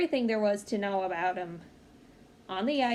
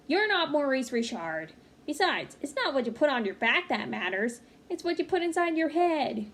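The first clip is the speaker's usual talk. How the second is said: firm mother; 3 semitones higher than usual. Acted. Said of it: "mother answers".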